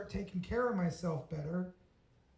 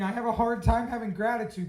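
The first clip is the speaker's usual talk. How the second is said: louder, whiny self-mockery of "I have a hard time having gratitude"; mocking himself; 3 semitones higher, 6 dB louder than usual. Mocking his own sulky Thanksgiving self, in a louder whine. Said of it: "I kinda laugh at myself. I'm like".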